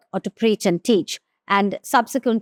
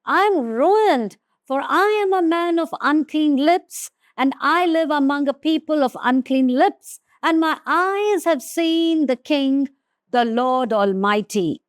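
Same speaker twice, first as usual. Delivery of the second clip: lamenting confession; 4 semitones higher than usual. Acted. Isaiah laments his unclean lips before the King, mild anguish. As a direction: confess your ruin with a mild ache. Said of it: "I cried".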